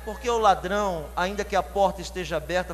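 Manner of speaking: usual speaking voice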